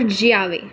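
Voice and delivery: ज्यावे with a jy sound. Shown as a demonstration. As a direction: say ज्यावे, jy at the start. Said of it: "तीन तरीके से हो सकती है". (ज्यावे, ज्य की आवाज़ के साथ)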